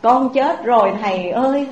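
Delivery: mild acted wailing. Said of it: "bà hai khóc òa lên".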